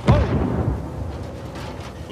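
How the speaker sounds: loud, high yell of alarm; sudden high-pitched holler; startled shout. Acted. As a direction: cry out as the car lurches. Startled during a rough drive.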